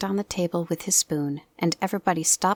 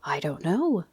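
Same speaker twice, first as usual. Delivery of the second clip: doleful. Acted. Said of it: "said Pooh rather dolefully".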